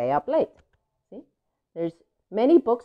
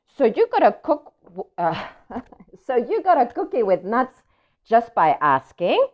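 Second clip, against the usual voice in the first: louder, disbelieving pigeon question; unconvinced pigeon; 5 semitones higher, 3 dB louder than usual. Acted. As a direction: challenge the duckling in disbelief. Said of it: "not convinced at all".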